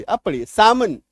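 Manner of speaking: सामन said with no l; saa-man, the l dropped; silent l salmon. Shown as a demonstration. Teacher models सामन, the right way. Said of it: "वो गलत उच्चारण है".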